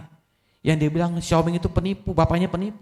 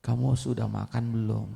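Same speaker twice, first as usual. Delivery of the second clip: weak voice; 3 semitones lower, 6 dB quieter than usual. Acted. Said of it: "walaupun dengan berat".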